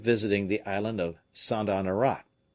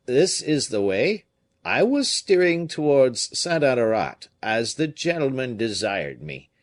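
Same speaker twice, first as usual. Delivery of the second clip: put-on raised, higher, louder old sailor; a rough fisherman pleading his case, higher and louder; fisherman's voice; 3 semitones higher, 4 dB louder than usual. Fisherman telling the comte about the boat, raised and louder.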